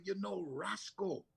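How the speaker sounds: slow, lightly put-on Jamaican cook's voice; Jamaican accent. Retelling the kitchen cook asking about Roscoe, Jamaican accent. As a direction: ask it slowly in a Jamaican lilt. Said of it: "the Jamaican line that she used to say".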